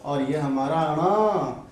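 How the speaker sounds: ण drawn out slowly through the nose; slow nasal ण. Shown as a demonstration. Teacher showing students where ण sounds, slow and nasal. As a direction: say ण slowly, letting it ring in the nose. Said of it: "आवाज कहाँ से निकल के आ रही है".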